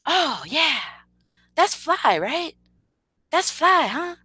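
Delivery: mock her gushing in a high, small voice; imitating hype person. Streamer mimics hype person praising his rap, high mocking voice. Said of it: "She says something like".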